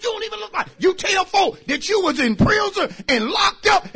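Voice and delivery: high, incredulous exclaiming; mock amazement. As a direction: act out the shocked friend. Preacher mocking congregants, exclaiming.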